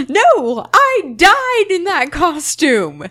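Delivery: slow, dry sarcasm; sarcastic. Retold or imitated. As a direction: drag it out, dripping sarcasm. Sarcastic retort retold.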